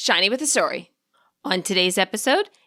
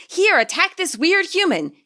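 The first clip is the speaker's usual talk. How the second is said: mock scream; 9 semitones higher than usual. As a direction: shriek it like a cartoon. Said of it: "his hair screaming".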